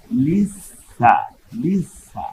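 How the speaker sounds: লিসা with a long doubled consonant; দুইবার উচ্চারণ. Shown as a demonstration. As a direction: hold the middle sound of লিসা, then release সা. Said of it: "এই ঝাটা দুইবার উচ্চারণ". (লিস, সা টেনে ভেঙে)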